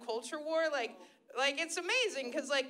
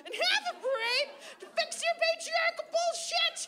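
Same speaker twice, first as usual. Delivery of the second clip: mock rant; 13 semitones higher than usual. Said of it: "I was like".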